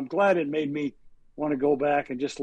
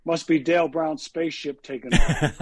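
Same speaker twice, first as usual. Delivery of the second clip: dry, expressionless one-liner; deadpan; 3 dB louder than usual. Retold or imitated. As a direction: say it completely straight-faced. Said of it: "in his best deadpan voice".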